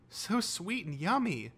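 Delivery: high, slow, savouring delight; pure joy. A narrator's reading. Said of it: "her eyes closed in pure joy".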